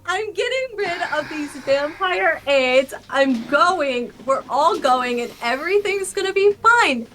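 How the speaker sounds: high panicky whine; panicked. Acted. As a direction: fake a frantic panic. Mock panic about dying.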